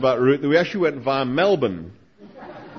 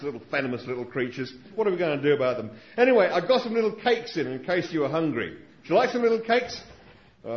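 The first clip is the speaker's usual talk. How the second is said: Struan Sutherland. Retold or imitated. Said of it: "my Australian accent isn't very good".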